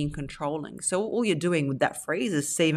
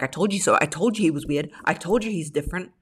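mock gloating. Wife gloating to husband about his brother, mildly smug. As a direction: rub it in lightly. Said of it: "she's not there like".

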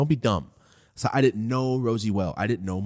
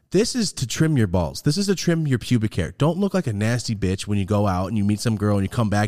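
R-rated pitch; 4 dB louder than usual. Shown as a demonstration. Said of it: "for the R type of ad read".

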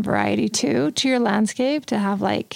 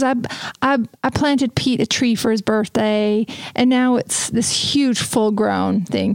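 a hint of a Southern accent, slow; gently imitating a Southern friend's lilt; recalling a birthday tree in a mild Southern accent; slower than usual. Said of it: "That's my Southern voice".

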